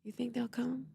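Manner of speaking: retold whisper. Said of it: "And he'll whisper in my ear".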